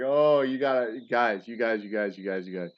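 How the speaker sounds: words half laughed out, breaking up; laughing. Retold or imitated. Giggling at the graveside to his stunned family. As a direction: talk through giggles, calling the family. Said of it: "And I'm just laughing".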